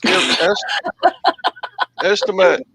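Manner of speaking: mock Spanish accent with a laugh; hammed-up Spanish accent. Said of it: "Easy on the accent".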